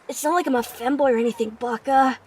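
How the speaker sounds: fast, mild anime tsundere. Pretend. Streamer answers femboy question as mild tsundere. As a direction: deny it huffily, anime-style. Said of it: "That's not bad".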